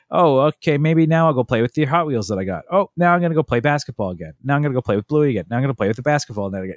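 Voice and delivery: high, flitting, speeding up toward the end; a hint of a restless kid hopping between toys; lightly voiced toddler. Toddler flitting between birthday toys, lightly voiced and rushing. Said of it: "he's gotta be like".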